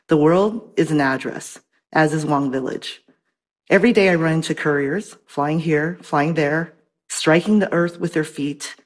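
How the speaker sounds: measured, unhurried poem recital; poetry reading. Acted. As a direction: read each line with weight and pauses. Reads her poem translation.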